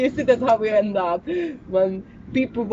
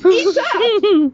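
shouted urging; 7 semitones higher, 8 dB louder than usual. Real, not acted. Urging John to eat.

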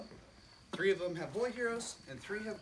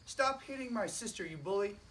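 a higher, half-hearted storybook yell; mild shout; 5 semitones higher than usual. Acted. Young elephant yelling at the bull boys, mild shout. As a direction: call out to the bullies without straining. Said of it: "shouted at them".

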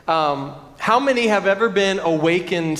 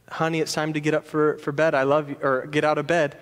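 soft tender; 4 semitones lower, 4 dB quieter, faster than usual. Retold or imitated. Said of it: "I said".

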